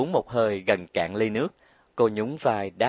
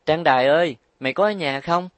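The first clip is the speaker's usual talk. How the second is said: loud call toward the house, voice raised high; 5 semitones higher, 5 dB louder than usual. Acted. Nhật Linh calling into Trang Đài's house, loud call. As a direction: call her friend from the front step.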